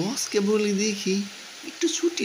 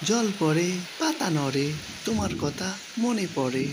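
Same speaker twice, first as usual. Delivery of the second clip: softening, wistful recitation; poem recital. Acted. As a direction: recite it gently, fading away. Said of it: "কবিতাটা খুব বেশি মনে পড়ছে".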